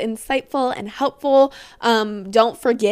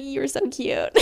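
put-on adoring boyfriend; 3 semitones higher, 5 dB quieter than usual. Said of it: "he would be like".

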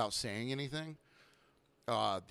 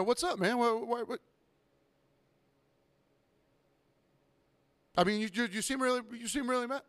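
much higher, stammering patron imitation; nervous, repetitive probing, pitched way up; mock flustered customer; 9 semitones higher than usual. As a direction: mimic someone floundering in awkward silence. Customer flounders in awkward silence.

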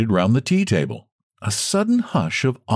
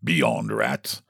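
lower, deliberate, scornful; distinct dismissive aside; 10 semitones lower, 5 dB quieter than usual. A narrator's reading. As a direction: drop it low and clear. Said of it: "very distinctly said".

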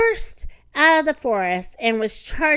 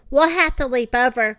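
louder call over the rushing water; 5 dB louder than usual. Acted. Father calls to Bambi at the waterfall's edge, loud call. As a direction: call it across the falls. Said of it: "called his father".

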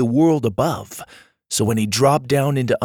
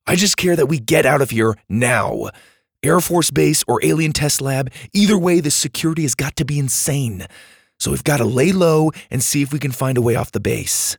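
slightly higher, urgent take-charge voice; firm boy Dylan; 3 semitones higher than usual. Acted. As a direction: cut in and take charge briskly.

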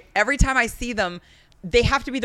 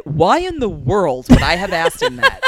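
incredulous retort; 6 dB louder than usual. Retold or imitated. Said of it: "I literally said".

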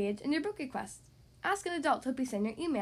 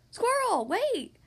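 loud, high sing-out call; 10 semitones higher, 6 dB louder, much slower than usual. A narrator's reading. Friends calling Squirrel back once more, calling out. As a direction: call after her, swooping each word. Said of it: "her friends called once more".

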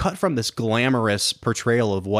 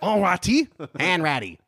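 mock French accent, higher on "All righty"; 8 semitones higher than usual. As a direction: imitate French guys echoing "Hanratty". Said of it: "the French guys are going".

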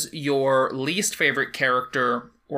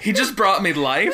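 laughing; 5 semitones higher, 3 dB louder than usual. Real, not acted. Friends giggling about smiling goblin.

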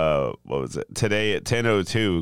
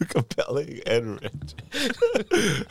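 mock ad praise; 5 semitones higher, much slower than usual. Repeats friend's ad praise mockingly.

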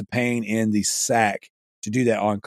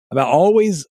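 words pushed out around a burp; 3 semitones higher, 3 dB louder than usual. Real, not acted. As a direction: talk through a rising burp. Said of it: "excuse me, I'm about to burp".

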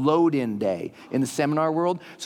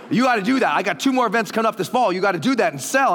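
insistent urging; 5 semitones higher, 4 dB louder, faster than usual. Retold or imitated. Mark urging retold.

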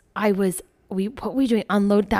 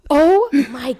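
much higher, louder, slow exclamation; mock shocked scream; 7 semitones higher, 6 dB louder, slower than usual. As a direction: shriek out in disbelief. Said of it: "I'm screaming like her".

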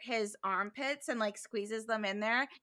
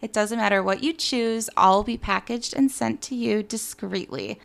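ad read; 7 dB louder than usual. Real, not acted. Reads sponsor ad.

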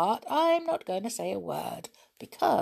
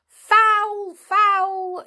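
high, loud protesting yell; loud indignant cry of foul; 9 dB louder than usual. A narrator's reading. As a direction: shout it like an outraged referee. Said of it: "yelled Nobby".

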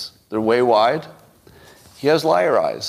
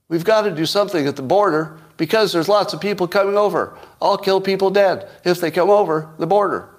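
much higher, pleading politician; 8 semitones higher than usual. Shown as a demonstration. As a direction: beg the crowd to believe you, pitched way up. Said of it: "Pleading voice sounds like".

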